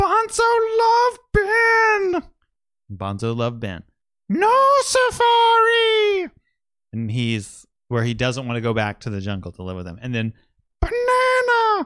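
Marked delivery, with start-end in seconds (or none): 0.0-6.3 very high, slow, swooping, dragged-out voice. Recounting what Bonzo says, the speaker does his voice: Bonzo voice. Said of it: "we'll do the voice".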